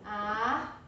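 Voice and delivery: "árvore" split as ár, vo, re with pauses; syllable by syllable. Shown as a demonstration. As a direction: say "árvore" one syllable at a time. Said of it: "eu separo assim".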